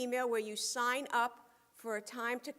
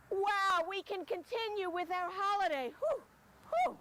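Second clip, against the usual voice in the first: excited; 6 semitones higher than usual. Acted. Relief after finding blower.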